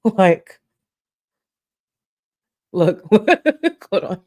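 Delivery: high laughing squeal. Real, not acted. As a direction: laugh through it. Laughing at the edit.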